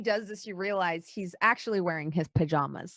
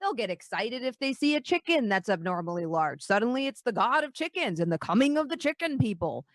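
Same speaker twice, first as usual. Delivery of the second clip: low, grave dwarf lord; 3 semitones lower than usual. Acted. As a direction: speak low and measured. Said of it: "he says".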